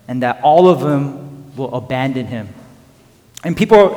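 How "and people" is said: ordinary delivery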